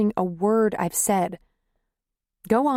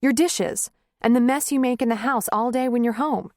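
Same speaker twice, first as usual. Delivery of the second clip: angry tirade; 5 semitones higher than usual. Acted.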